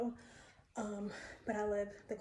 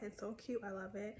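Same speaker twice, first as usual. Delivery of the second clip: breathless whisper. Real, not acted. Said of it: "sorry, I'm out of breath".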